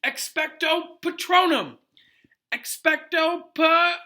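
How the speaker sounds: high, slow, loud spell shout; desperate battle cry, pitched high and drawn out; yelled spell. A narrator's reading. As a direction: yell the charm with all his might. Harry repeats spell against Dementor.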